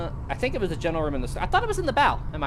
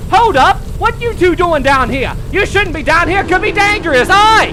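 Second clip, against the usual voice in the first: Frederick Barrett; 13 dB louder than usual. Retold or imitated. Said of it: "Frederick Barrett walks up to him and goes".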